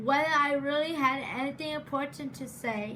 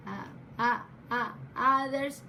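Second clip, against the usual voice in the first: stuttering; 2 semitones lower than usual. Real, not acted. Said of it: "but I stutter".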